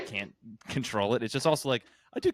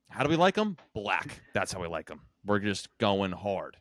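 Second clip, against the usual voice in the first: gruff dad voice. Retold or imitated. Dad voiced in steak story.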